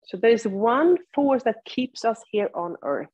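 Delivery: unhurried cues with long silences between; guided yoga practice. Real, not acted. Teacher leads seated students into body awareness, guided meditation delivery. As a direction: guide them through it, leaving room to breathe.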